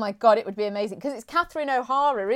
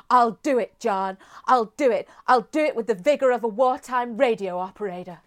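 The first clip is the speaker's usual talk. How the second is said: Moira Rose impression. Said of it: "amazing voice and accent".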